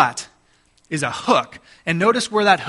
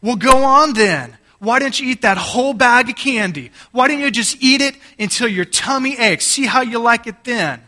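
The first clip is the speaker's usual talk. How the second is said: sarcastic parent; 6 semitones higher, 5 dB louder than usual. Retold or imitated. Parent telling greedy kids to eat it all, sarcastic. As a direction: dare the kids, thick with sarcasm. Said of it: "You were using sarcasm, right?".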